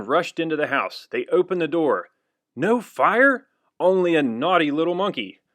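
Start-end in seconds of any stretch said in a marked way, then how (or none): 2.5-5.4 loud, much higher amazed cry; surprised exclaim. Acted. Firemen finding only a monkey, surprised. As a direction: sound astonished, then scolding.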